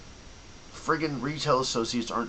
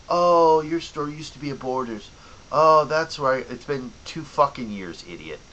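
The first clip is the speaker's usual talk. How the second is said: mocking customer; 3 semitones higher, 3 dB louder than usual.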